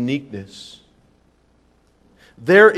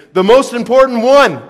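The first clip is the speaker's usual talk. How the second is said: emphatic quote; 7 semitones higher, 9 dB louder than usual. Acted. Quoting Jesus with emphasis.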